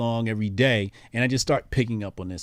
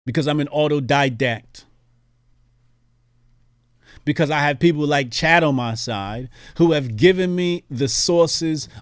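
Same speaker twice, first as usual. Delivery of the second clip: put-on 1776 British accent; 3 semitones higher, 3 dB louder than usual. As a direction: play a Founding Father in a bootleg British accent. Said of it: "my seventeen seventy-six accent".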